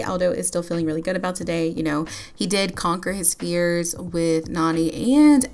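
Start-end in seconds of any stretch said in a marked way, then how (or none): none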